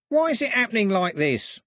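high-pitched, panicky henchman complaining; agitated demand. Acted. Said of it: "Polgrave demanded of Foxlip".

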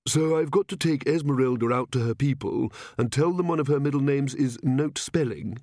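lightly voiced put-out king; a hint of a king facing embarrassment; Verence, lightly voiced. King facing his people with the name, lightly voiced.

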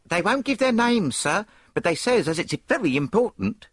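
a breathless landlady at the door; high, eager landlady. A narrator's reading. Landlady announcing visitors.

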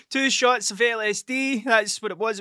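high, slow words through laughter; laughing reveal. Real, not acted. Revealing the shots were acid, laughing and slow. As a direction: spell it out while still laughing.

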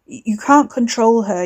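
a slight crack at the start, shaky stammer; a touch of a cracked, nervous voice. Acted. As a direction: stumble on the first word as the voice breaks. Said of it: "Wes's voice cracked".

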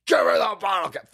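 high, loud mock yell of a furious tax agent; mock-furious IRS agent roaring for bottle caps; hammed-up strangling shout. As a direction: bellow it like you're throttling him. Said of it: "IRS agent strangling him".

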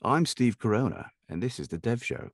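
lightly put-on sophisticated announcer. Shown as a demonstration. Guest offering the host a show intro, sophisticated voice. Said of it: "can be very sophisticated".

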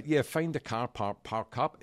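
imitated Aussie official; Australian accent. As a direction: direct them in a mock Australian voice. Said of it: "Is that your Australian accent?".

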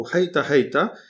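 loud little driver's shout; a boy steering horses, shouting again; calling to horses. Acted. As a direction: holler the horses round the corner. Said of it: "a malec zawołał".

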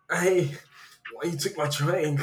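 slow, mock-angry action star impression; drawn-out, aggrieved Austrian accent; Arnold Schwarzenegger. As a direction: confront a drink thief in a slow movie-star accent. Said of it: "hit you with the Arnold".

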